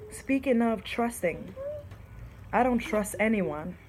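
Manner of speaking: poem reading. Shown as a demonstration. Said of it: "It says".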